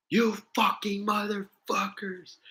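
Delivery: very high, slow hammed-up curse; mock furious grandpa. Grandpa cursing at family over empty box, high slow mock rage. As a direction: squeal the curse like a cartoon old man.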